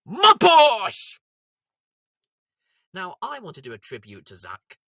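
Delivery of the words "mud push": loud, higher cry; shouted mud push. Acted. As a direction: announce it like a wrestling move. Shouted catchphrase.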